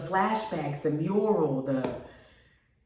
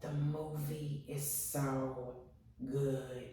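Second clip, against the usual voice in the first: slow, soft, drawn-out awe; dreamy, hushed praise; hushed gush; 4 semitones lower, 14 dB quieter, much slower than usual. Real, not acted. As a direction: breathe it out like it moved you. Gushing about the movie.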